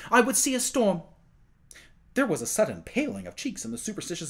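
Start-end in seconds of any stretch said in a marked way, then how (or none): 0.1-1.0 impetuous zeal. A narrator's reading. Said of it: "said with impetuous zeal".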